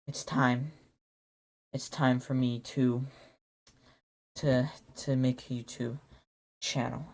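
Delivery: low, slow, solemn voice; dramatic realization. Retold or imitated. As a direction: deliver it like a fateful movie moment. Waking in a cold sweat.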